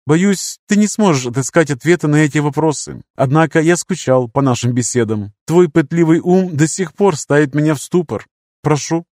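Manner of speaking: gently lifted, courteous mentor. Acted. Lirius speaking.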